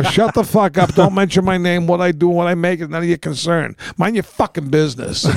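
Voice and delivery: heated mock rebuke, easing down; retold telling-off. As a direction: re-enact telling a relative off. Acted telling-off in family quarrel.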